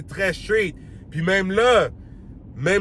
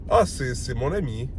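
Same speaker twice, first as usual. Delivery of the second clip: suggestive intonation; 4 semitones lower, 4 dB quieter than usual. Shown as a demonstration. Demoing the girl's hinting tone, low and knowing. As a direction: lower and quieter, knowing hint. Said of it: "t'as vu l'intonation que j'ai donnée?".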